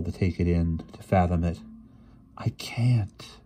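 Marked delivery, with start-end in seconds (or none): 2.4-3.4 stunned whisper; helpless, hushed protest; faltering whisper. A narrator's reading. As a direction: whisper it haltingly, overwhelmed. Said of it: "she, she stammered".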